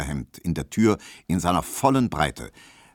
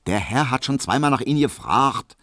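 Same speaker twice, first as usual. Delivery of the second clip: brusque maid; 6 semitones higher than usual. Acted. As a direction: shoo him off as the pert maid. Hedwig, gleichgültig abweisend. (hohe, laute schnippische Magd)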